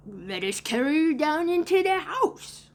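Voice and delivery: put-on high, rising lost-boy voice; put-on excited boy voice; eager lost boy. A narrator's reading. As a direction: pipe up with a helpful idea, pitch climbing. Lost boy suggesting, voiced by narrator.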